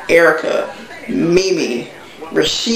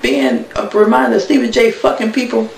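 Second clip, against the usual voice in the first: pitched way up, fed-up mock complaint; exasperated aside; 7 semitones higher than usual. The speaker fed up with reminders of Stevie J, high exasperation. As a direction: throw up your hands in a high, exasperated voice. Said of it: "She's like".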